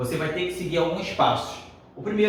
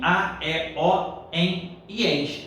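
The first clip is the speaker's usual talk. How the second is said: slow drilled rule; much slower than usual. Shown as a demonstration. Teacher drilling the rule to memorize, slowly.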